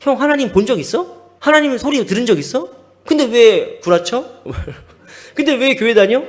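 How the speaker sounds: firing challenges as an imitated younger friend; retold critical attack. Younger friend challenges the preacher about God, critical attack. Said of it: "비판 의식과 공격을 나한테 막 하더라고요".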